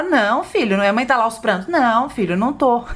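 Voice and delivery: a hint of a mother brushing off worry; imitating a denying mother. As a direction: deny it to a child, mock-soothing. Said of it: "a mãe fala".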